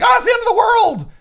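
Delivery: high, loud mock panicked cry; hammed-up doomsday yell. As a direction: wail it like the world is ending. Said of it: "where everyone's like".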